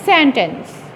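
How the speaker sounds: सेंटेंस with the first syllable SEN stressed and TENCE unstressed; सेंटेंस stressed on the first syllable as in the word for a sentence. Shown as a demonstration. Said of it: "पहले वाले syllable को सेन को आपने stress बोलना है".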